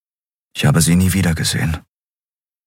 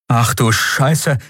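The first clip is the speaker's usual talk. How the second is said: gasped; 5 semitones higher, slower than usual. Acted. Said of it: "keuchte Kai".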